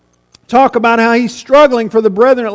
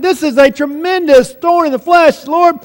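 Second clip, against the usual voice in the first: a touch of urgent pleading, pitch raised; acted-out plea to the Lord, slightly higher; begging; 4 semitones higher than usual. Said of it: "He's begging".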